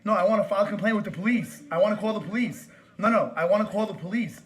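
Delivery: loud, insistent complaint; angry demand. Real, not acted. Caller demands police from store worker, loud and angry. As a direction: push each demand out loudly.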